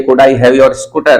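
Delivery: slow, polite, spaced words; slow model question. Shown as a demonstration. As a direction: say it slowly for the class. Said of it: "मैंने sir से कहा".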